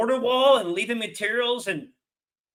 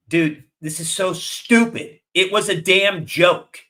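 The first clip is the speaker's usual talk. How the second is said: louder, slow, exasperated rant; fed-up anger; 6 dB louder, slower than usual. Real, not acted. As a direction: spit it out, fed up and mad. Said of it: "the reason why I'm sounding like this".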